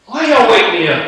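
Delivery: a touch of sleepy irritation; groggy annoyed. Acted. Jesus just woken by the disciples, lightly voiced sleepy complaint.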